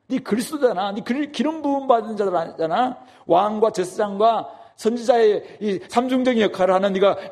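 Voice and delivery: mild scornful jeer; lightly voiced criminal sneering; slandering taunt. Criminal on the cross slandering Jesus, mild mocking. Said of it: "비방하는 것이죠".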